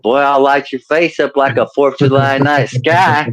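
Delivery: mock cranky redneck grandpa; redneck Okie grandpa. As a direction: bluster like an Okie old-timer. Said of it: "the more redneck and oaky I'm gonna sound".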